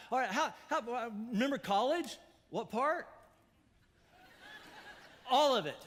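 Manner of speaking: a hammed-up prosecutor reading the rap sheet. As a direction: build the list of sins to a shout. Escalating mock accusation of sins.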